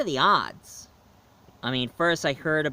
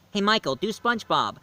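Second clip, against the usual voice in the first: lightly imitated kid's plea, higher; pestering kids; 6 semitones higher than usual. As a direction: mimic a child begging for a favor. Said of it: "a bunch of kids who always keeps asking me".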